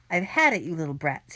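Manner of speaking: breathless wheezy threat; wheezing. Acted. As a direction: wheeze out the anger.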